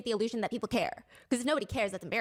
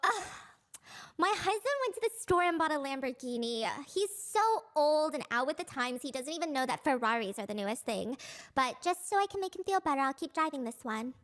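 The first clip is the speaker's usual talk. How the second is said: humble bragging; 3 semitones higher than usual. Pretend. Friend mocking a rich wife, whiny humble brag. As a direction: sigh as if burdened by the Lamborghini. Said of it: "you go".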